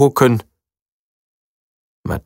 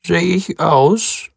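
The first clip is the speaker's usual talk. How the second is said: hopeful; 7 semitones higher, much slower than usual. A narrator's reading. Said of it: "fragt er hoffnungsfroh".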